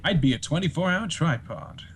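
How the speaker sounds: lightly voiced theatrical actor impression; suggestive, pompous swagger; Matt Berry. Shown as a demonstration. Guest boasting to the fellas as Matt Berry. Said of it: "hear some of your Matt Berries".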